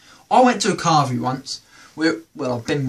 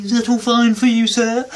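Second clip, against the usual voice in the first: polite waiter; 5 semitones higher, 3 dB louder than usual. Retold or imitated. Waiter checking on table.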